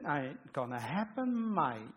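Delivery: a hint of a gruff Pharaoh, drawn out slowly; lightly voiced stubborn Pharaoh; mock Pharaoh brushing Moses off. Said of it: "why Pharaoh speaks like this".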